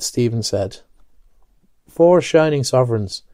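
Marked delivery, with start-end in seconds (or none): 1.9-3.2 mild delight. Acted. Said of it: "cried with delight".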